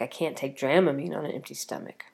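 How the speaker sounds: hushed whisper of a worry. Retold or imitated. Whispering her worry about airsickness to viewers. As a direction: breathe it out like a nervous secret. Worried aside about getting sick.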